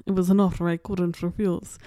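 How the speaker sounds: a badly faked Italian-American mobster accent, barely there; terrible movie accent. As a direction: quote the famous film line in a weak mob-boss accent. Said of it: "that was a terrible accent".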